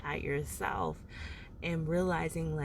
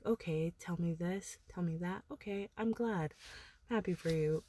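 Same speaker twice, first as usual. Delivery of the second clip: uninterested listener; 5 dB quieter, faster than usual. Retold or imitated. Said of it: "some people just are very, like".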